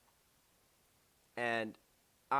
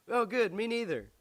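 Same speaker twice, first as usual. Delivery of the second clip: high, louder mock delight; imitated eager relief; 10 semitones higher, 6 dB louder than usual. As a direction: play the friend pouncing on good news. Voices friend's pleased reply.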